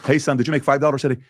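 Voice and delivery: dad voice. Retold or imitated. Dad voiced in retold story.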